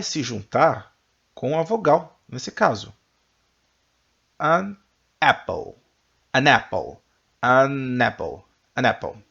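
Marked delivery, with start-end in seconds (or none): 4.4-9.2 AN linked onto apple; stress on AN. Shown as a demonstration. Teacher drilling students, linking an into apple. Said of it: "You repeat after me".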